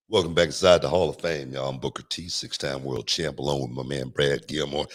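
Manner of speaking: low, easy late-night radio host voice. Pretend. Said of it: "That's my late night voice right there".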